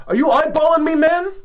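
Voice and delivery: imitating a drunk kid spoiling for a fight; mock drunk tough guy. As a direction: play the mouthy drunk picking a fight. Drunk kid challenging, voiced.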